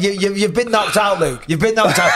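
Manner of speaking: singing a playground taunt at the beaten champ; sing-song taunt. Retold or imitated. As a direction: tease him in a childish chant. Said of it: "I said".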